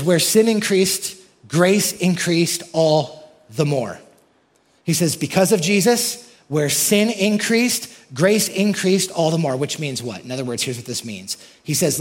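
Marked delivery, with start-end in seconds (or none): 0.0-4.0 raised, slowed proclamation of the verse; fervent pulpit declaration; proclaiming. Acted. Preacher proclaims Paul's key verse. 5.2-9.6 higher, louder, slow, stretching increased; preacher climbing to a peak; building proclamation. Acted. Verse repeated with more force.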